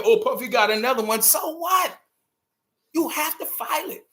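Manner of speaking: high mocking shout of the gossip crowd. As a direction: yell it like scoffing at headlines. Mocking public reaction, shouted.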